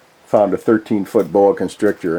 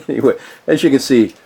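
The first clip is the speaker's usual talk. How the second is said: laughing; 5 semitones higher, faster than usual. Real, not acted. Laughing at Sean.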